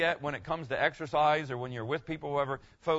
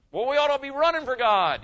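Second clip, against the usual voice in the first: louder and higher, full preaching voice; rousing pulpit call; 10 semitones higher, 9 dB louder than usual. Real, not acted. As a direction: lift it up and exhort the crowd. Preacher exhorting the congregation.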